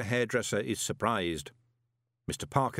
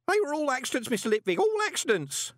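put-on much higher, fast panicky old man's babble; babbling in panic; 3 dB louder, faster than usual. A narrator's reading. Old clerk Groat babbles to Moist in panic, much higher. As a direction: gabble it out in terror. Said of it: "Groat babbled".

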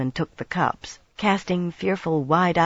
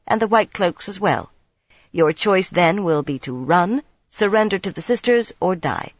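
measured and cold; 3 semitones higher than usual. Acted. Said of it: "measured flow of words".

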